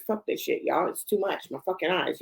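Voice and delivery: dropped to a near-whisper, fed up; muttered frustration. Real, not acted. Host mutters to viewers about tired eyes, fed-up under-breath grumble. Frustrated aside while struggling reading.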